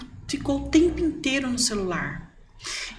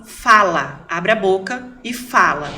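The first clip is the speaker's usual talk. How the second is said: loud punched fala, then slow Abre a boca e fala; emphatic command; 2 semitones lower, 5 dB louder, slower than usual. Real, not acted. Mother insisting children speak, loud slow order. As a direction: spell it out firmly. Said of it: "repeated insistence".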